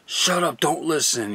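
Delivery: a hint of a nagging inner voice; voice in her head. Retelling the voice in her head in church, mild mock urging. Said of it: "I had a voice in my head saying".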